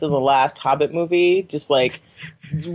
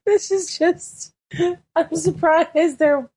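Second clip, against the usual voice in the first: exasperated disbelief; 7 semitones higher than usual. Real, not acted. Exasperated at cartoon absurdity.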